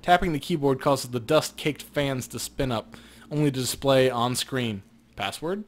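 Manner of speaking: steady scene-setting read; game master narration. A narrator's reading. Game master describing the computer to the player, in a steady narrating voice.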